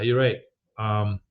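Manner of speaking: ordinary talk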